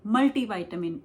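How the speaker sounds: मल्टीविटामिन with "tee" in the middle; Indian pronunciation. Shown as a demonstration. Teacher showing Indian usage, मल्टीविटामिन said "MUL-tee-vitamin". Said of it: "हम लोग ऐसे बोलते हैं ना".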